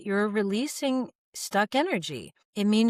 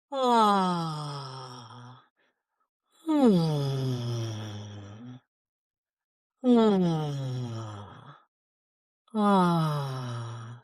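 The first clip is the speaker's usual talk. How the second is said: much lower, moaning ah as the jaw lets go; low groaning ah; 7 semitones lower, much slower than usual. Shown as a demonstration. Coach releasing the jaw for viewers, deep moaning ah. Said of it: "Continue to make sound".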